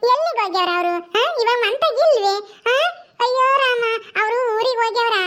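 lightly voiced naive youngster, singsong; childlike Paddu, comforting. Paddu offers to stay with crying Gowrakka, childlike comforting.

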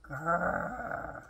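low, soft drawn-out growl; tiger growl. A narrator's reading. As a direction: growl softly like a distant tiger. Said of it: "loud and very scary noise".

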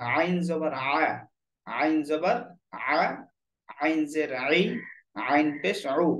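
"আইন", "আ", "আই", "উ" squeezed from the middle of the throat; mid-throat ayn. Shown as a demonstration. Teacher drilling the letter আইন for learners, voiced from mid-throat. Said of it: "কণ্ঠনালীর মধ্যখান থেকে আওয়াজটা বের হবে".

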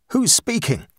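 high, cracking frightened question; voice cracking in fear. A narrator's reading. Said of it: "He heard his voice crack as he asked".

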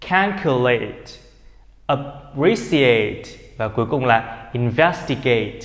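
calculate, appreciate, investigate each ending in full "eight"; long AY in the last syllable of calculate, appreciate, investigate; verb "-ate" as "eight". Shown as a demonstration. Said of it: "Tất cả đều là âm A". (đọc calculate, appreciate, investigate với đuôi "ây-t")

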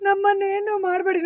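mildly tearful plea; demonstrated weepy begging; acted crying. Shown as a demonstration. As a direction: beg them off as if crying. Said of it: "ಅಳ್ತಾ ಹೇಳು".

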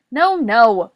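loud exasperated yell; Boris. A narrator's reading. Boris correcting Morris about tea, yelling. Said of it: "Boris yelled".

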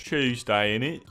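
put-on a touch of British slang accent; half-hearted London accent; mock British. Denying to chat, a lightly mocking British accent. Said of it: "I'm not British".

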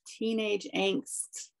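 put-on slow, dragging teen sulk; sulky teen mumble. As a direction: drawl it like a moody teenager. Joking about teen angst in writing.

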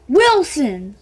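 loud annoyed Wilson!; frustrated cry. Real, not acted. Kid annoyed he misread the ball's brand, loud Wilson!. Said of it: "God dang it!".

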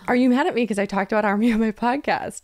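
lightly mock-anxious repeat. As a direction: ask again with a touch of mock worry. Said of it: "And I was like".

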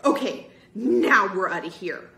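loud, relieved cheer; happy declaration. A narrator's reading. Girl escaping the basement with her friends, loud happy declaration. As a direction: declare it loudly and happily. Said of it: "Sherry declared happily".

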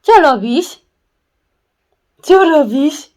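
high, loud call to the puppy. Real, not acted. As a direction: call out to the dog from afar. Calling the puppy across room. (wołanie z daleka)

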